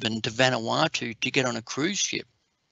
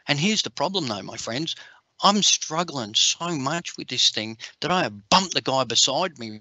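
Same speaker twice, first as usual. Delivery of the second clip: usual speaking voice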